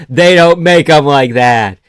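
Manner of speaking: loud, slow and emphatic; emphatic objection. Real, not acted. Streamer disputing a zero sugar Uncrustable, slow loud objection. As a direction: spell it out slowly and loudly. First take, before redoing it in accent.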